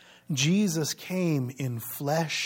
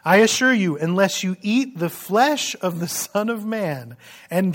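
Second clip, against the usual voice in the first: measured, solemn Bible reading; formal scripture reading voice; 3 dB louder than usual. Acted. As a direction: read the passage out to the congregation with weight. Reads the scripture passage aloud.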